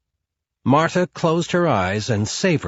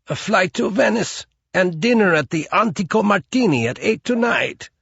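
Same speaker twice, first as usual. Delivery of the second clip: higher, pleading, frightened voice; frightened concierge; 9 semitones higher than usual. Acted. Concierge gives up the secret to Marta, higher and afraid. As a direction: spill it out in fear.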